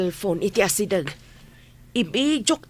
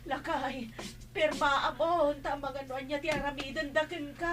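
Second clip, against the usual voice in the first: hushed, urgent plea to sign; urgent whisper; 4 semitones higher, 11 dB quieter than usual. Acted. Wife hushes her husband into signing, urgent whisper. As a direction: whisper it fast so the masked man barely hears.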